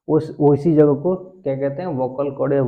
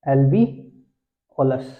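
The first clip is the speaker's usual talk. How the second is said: slow drill; much slower than usual. Shown as a demonstration. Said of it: "इसका singular क्या होता है?".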